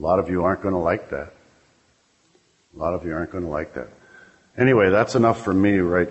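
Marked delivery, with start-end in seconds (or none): 2.7-3.9 softer, faster, under the breath; quieter repeat. Real, not acted. Speaker warns the AA room, repeating it quietly and quickly. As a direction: let the repeat drop to a fast aside.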